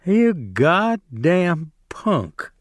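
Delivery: slow, drawn-out sneer; contemptuous Carlson. Acted. Carlson laughing at Curly, slow contemptuous sneer. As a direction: stretch the insult out with scorn. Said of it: "Carlson laughed".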